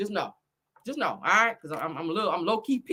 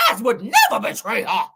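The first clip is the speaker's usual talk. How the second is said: mock slave speech; 4 dB louder than usual. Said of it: "turned into a slave up over here".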